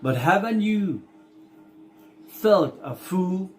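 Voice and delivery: slow, deliberate verse with pauses between phrases; poem reading. Acted. Teacher reading the Earthworm's monologue for the class, slow recitation. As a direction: read the poem out slowly, stretching the key words.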